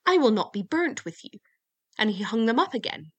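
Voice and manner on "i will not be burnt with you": raised, louder scolding; narrated anger, voice lifted in indignation; angry. A narrator's reading. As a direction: tell them off crossly. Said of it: "he grew angry and said".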